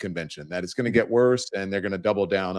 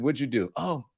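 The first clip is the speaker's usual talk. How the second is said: put-on casual girlfriend chatter, a bit higher; friend voice; 5 semitones higher than usual. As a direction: voice a friend at brunch. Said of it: "code switching".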